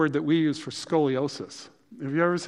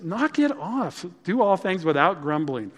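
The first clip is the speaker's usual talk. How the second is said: sharp rebuke; 3 semitones higher than usual. Acted. God ordering grumblers to quit, a firm raised rebuke. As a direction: cut them off like a stern parent.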